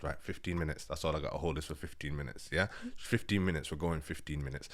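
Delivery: low, hushed self-coaching; quiet, contained pep talk to yourself; tense self-talk. Retold or imitated. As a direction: talk yourself through it under your breath. Acts out tense self-talk while walking.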